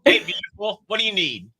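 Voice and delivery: high, loud, chummy assistant; playful Siri stand-in. Pretend. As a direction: ham it up as an over-familiar voice assistant. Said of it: "I'd be like".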